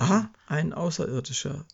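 high, teasing quip; joking. Acted. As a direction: tease the old man dryly. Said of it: "witzelte der Glühweinverkäufer". (witzelnd, hoch und neckend)

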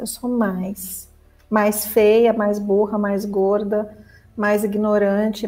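mock ego. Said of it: "É isso que o ego gosta".

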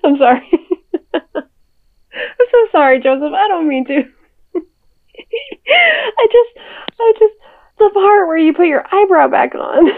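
giggling through an apology; can't stop laughing while talking; real helpless laughter; laughing fit. Real, not acted. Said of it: "Are you done yet?".

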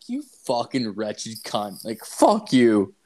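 slow, drawn-out cursing; retold contempt. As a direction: draw out each insult at a sister. Retold quarrel with his sister.

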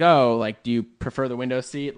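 a hint of sweet passive-aggression; polite on top, pointed underneath; lightly imitating his own passive-aggressive question. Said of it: "kind of, like, passive aggressive".

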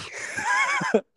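short high burst of laughter. Real, not acted. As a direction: laugh at yourself. Laughing at own disappointment.

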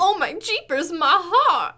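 high, loud southern gasp; a clutched-heart Southern belle; southern accent. Pretend. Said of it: "You did a southern accent".

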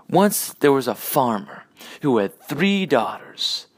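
Norm. Retold or imitated. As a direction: spin a tall tale slowly in a lightly imitated voice. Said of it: "making up a story based off Norm's, uh, style".

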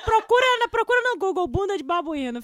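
loud insistence. Real, not acted. Insisting loudly on search.

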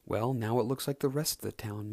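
rude. Acted. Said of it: "McQueen replied rudely".

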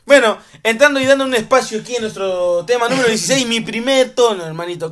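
presentación animada, algo más aguda; da paso al segmento con energía; presentador de programa. Acted. Presenta la sección del programa. (presentador animado)

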